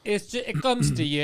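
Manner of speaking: A singer's slow, put-on English accent; fake English accent. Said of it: "She's got a good fake accent".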